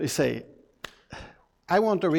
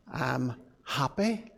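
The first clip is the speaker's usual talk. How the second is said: happy; 4 semitones lower, 7 dB quieter, slower than usual. Shown as a demonstration. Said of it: "adults, let's try it".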